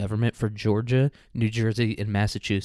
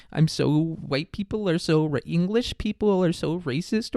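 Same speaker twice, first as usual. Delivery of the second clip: mock white liberal; 7 semitones higher than usual. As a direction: lament it like an overwrought guilty liberal. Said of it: "white lib equivalent of the time".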